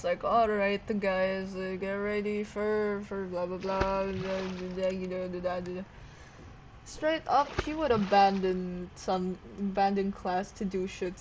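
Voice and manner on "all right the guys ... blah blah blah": droning bored teacher; monotone voice. Retold or imitated. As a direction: drone it like a dull teacher. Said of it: "in, like, this monotone voice".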